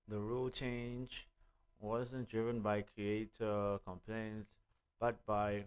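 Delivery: talking round a toothpick; words slightly blocked by a toothpick in the mouth. Real, not acted. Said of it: "I've got a toothpick in my mouth".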